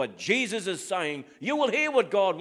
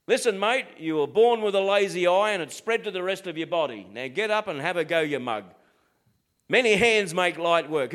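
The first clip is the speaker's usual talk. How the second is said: lightly voiced blunt Aussie workmate; a hint of straight-talking bloke on a job site; 4 dB louder than usual. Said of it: "an Aussie bloke will speak on a job site".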